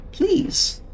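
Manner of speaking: high, breathy sinister please; menacingly polite whisper; whispered mock politeness.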